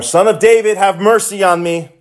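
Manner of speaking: crying out. Acted. Blind man hushed by crowd, cries out anyway. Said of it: "he cried out all the more".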